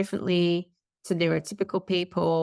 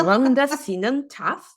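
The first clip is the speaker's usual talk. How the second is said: Rhondda Sinan Taff in a put-on Welsh accent, slow and sing-song; 5 semitones higher, slower than usual. Shown as a demonstration. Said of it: "With a Welsh accent".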